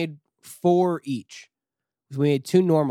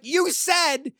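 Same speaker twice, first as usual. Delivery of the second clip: high, louder, retold panicky protest; panicked protest; 13 semitones higher, 5 dB louder than usual. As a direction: plead in mock alarm that he promised an Uber. Retold protest to taxi driver.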